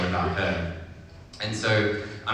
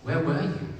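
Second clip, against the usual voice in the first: higher, lightly voiced small rabbit; questioning little rabbit; 9 semitones higher than usual. A narrator's reading. Little rabbit asks big rabbit, pleading question. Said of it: "asked Little Rabbit".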